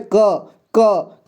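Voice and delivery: "क" drawn out with its inherent अ; demonstrated letter sound. Shown as a demonstration. Teacher asks learners to listen closely, demonstrating "क" slowly. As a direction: say "क" slowly so the अ is heard. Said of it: "देखिए आप ध्यान से सुनिए".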